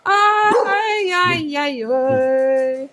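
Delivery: loud high-pitched cries. Shown as a demonstration. Voice play exclamations.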